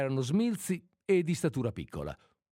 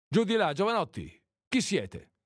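booming shout; 6 semitones higher than usual. A narrator's reading. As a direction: shout them down off the roof. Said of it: "gridò con la sua voce rimbombante". (grido forte e rimbombante)

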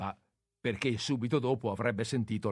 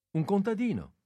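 cheerful; 9 semitones higher, 3 dB louder than usual. Acted. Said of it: "rispose quella lietamente".

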